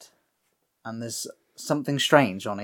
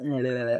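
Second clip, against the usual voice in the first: licking noise; 3 dB quieter, faster than usual. Retold or imitated. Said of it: "He starts licking Jenny as well".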